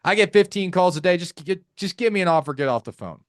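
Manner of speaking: mock impatient brush-off; fed-up seller shutting down the caller; mildly acted irritation; hostile seller. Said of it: "that type of seller".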